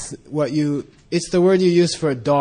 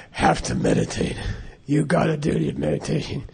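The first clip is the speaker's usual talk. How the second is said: stern Lama; 4 dB quieter than usual. Retold or imitated. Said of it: "he said".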